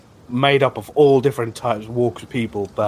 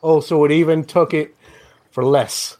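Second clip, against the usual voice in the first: high, louder gloating reply; smug reply; 7 semitones higher, 3 dB louder than usual. Acted. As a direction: crow about the bargain. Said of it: "he goes".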